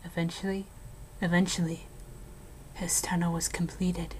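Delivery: hushed ghost-story telling, dropping to whispers; eerie storyteller voice, sinking into whispers at the grim parts; spooky story narration. Acted. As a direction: tell it like a campfire ghost story. Spooky ghost story told to friend.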